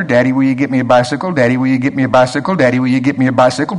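fast, rattled-off mock child pleading; lightly voiced kid nagging on repeat. Child keeps pestering his father for a bicycle, fast mock nagging.

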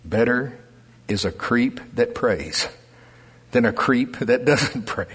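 low, slow, deliberate recital; slow mantra. Real, not acted. Pastor recites the church mantra to the congregation, slow and deliberate. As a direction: lay out each word of the saying slowly. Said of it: "Thank God for our mantra".

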